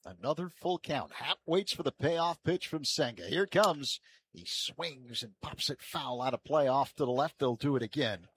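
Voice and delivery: lifted build to the pitch, easing on the foul; live play-by-play. Real, not acted. Announcer calling a payoff pitch, live play-by-play. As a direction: build anticipation, then report the result.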